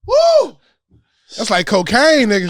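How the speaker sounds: loud tipsy whoop. Real, not acted. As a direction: whoop it up, buzzed and giddy. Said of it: "I'm a little tipsy".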